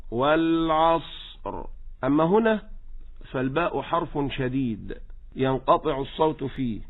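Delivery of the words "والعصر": slow والعصر, ص held on, then stop on ر; flowing saad. Shown as a demonstration. Teacher shows how a reader stops, flowing saad. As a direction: let the ص of والعصر flow into a final ر. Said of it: "ممتد صوته".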